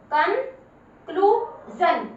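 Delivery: कनक्लूजन drawn out, ending जन; slow demo reading. Shown as a demonstration. Teacher showing pupils the जन ending, slowly. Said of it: "इसको जन बोलना है".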